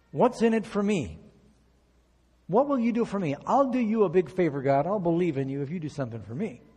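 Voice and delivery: greedy bargaining. Acted. Nobleman bargaining with God.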